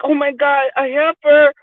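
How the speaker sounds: high mock gasp of disapproval; shocked white friends. White friends hearing "heifer", mock shock. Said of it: "they'll be like".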